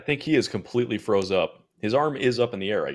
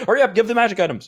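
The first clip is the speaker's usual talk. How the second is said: excited demand; 12 semitones higher, 9 dB louder, faster than usual. Acted. Playfully demanding loot from DM.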